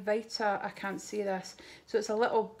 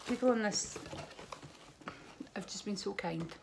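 teary thanks; 2 semitones lower, 4 dB quieter than usual. Real, not acted. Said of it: "I'm gonna spoil my makeup".

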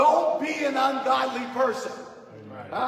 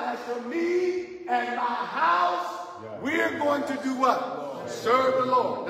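preaching at full force. Acted. Preacher urging the congregation to live by the word, fervent. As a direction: drive it home to the congregation.

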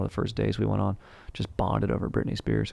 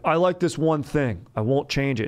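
higher-pitched, hint of a picky shopper; mock stubborn customer, pitched up; stubborn male customer; 5 semitones higher than usual. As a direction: lightly voice a guy who won't budge. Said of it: "They're like".

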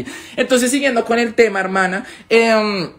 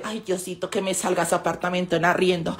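mock pleading prayer; 3 semitones lower, 7 dB quieter than usual. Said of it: "uno llega a rezarle".

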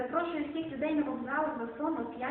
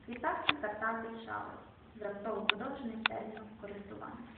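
poetry reading. Acted. Recites Szymborska poems.

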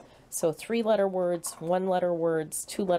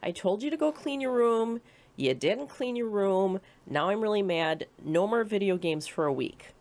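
a higher, lightly scolding mother's voice; mock angry mom; 4 semitones higher than usual. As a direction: play the fed-up mom, half in earnest. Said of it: "she comes back and she is furious".

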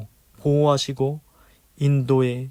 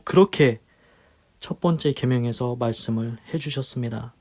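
earnest pastoral prayer, louder; 3 dB louder than usual. Acted. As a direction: pray aloud over the congregation. Closing prayer and exhortation.

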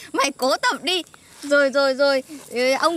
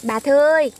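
calling out; 6 dB louder than usual. Pretend. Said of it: "cứ gọi".

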